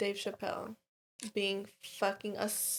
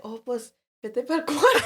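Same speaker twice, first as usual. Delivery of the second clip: grandma quote; 3 semitones higher, 3 dB louder than usual. Retold or imitated. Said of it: "And she was like".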